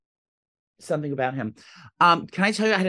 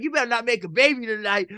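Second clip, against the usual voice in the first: hyped-up store guy; 6 semitones higher than usual. Retold or imitated. Grocery guy teasing a customer about tonight, hammed-up excitement.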